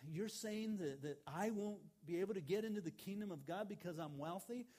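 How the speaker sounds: high, loud, agitated rich man; panicked retold. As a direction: blurt it out in rising panic. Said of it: "he just started panicking".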